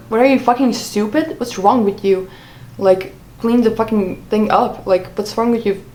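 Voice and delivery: mild mock yell, exasperated; retold yelling. Retelling boyfriend's outburst over a broken cup, restrained mock yell. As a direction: imitate an angry telling-off without shouting. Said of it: "start yelling when he's like".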